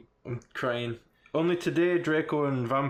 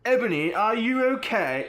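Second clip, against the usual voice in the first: higher-pitched Hermione impression; 8 semitones higher, 4 dB louder than usual. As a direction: attempt Hermione's voice on a concerned question. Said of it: "Can you do Hermione voice?".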